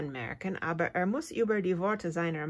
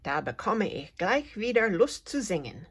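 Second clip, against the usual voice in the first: lightly chirpy, a touch higher; mildly chirped, happy cricket; chirping; 3 semitones higher, 3 dB louder than usual. Acted. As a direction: cricket chirping with new cheer. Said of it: "zirpt die Grille".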